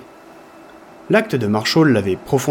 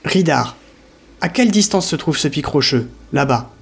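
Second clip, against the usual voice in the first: worried; 3 semitones higher than usual. Acted. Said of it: "sur un ton inquiet".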